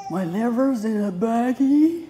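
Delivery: amused shock that the liver is in a bag; laughing disbelief. Real, not acted.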